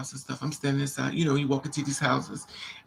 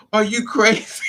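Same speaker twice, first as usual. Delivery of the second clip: high, loud mock protest breaking into laughter; hammed-up indignant cry through laughs; laughing mock outburst; 7 semitones higher, 6 dB louder than usual. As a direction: act outraged, cracking up as you go. Retold boyfriend's outburst, teller laughing.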